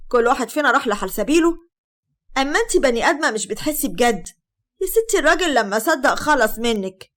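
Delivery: loud, fast contemptuous scolding; ex-husband scolding her for showing up. Acted. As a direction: brush her off with scorn.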